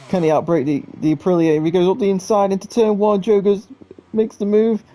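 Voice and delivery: motorsport commentator. Real, not acted. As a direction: call the last-lap battle with rising urgency. Live race finish, rising pitch.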